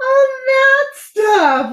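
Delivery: very high, said through a laugh. The captain answering Bartholomew's alarm about the oobleck, laughing. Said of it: "laughed the captain".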